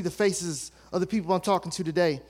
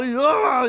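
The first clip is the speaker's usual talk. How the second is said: mock dad yell; 4 semitones higher, 6 dB louder than usual. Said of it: "stand up and yell".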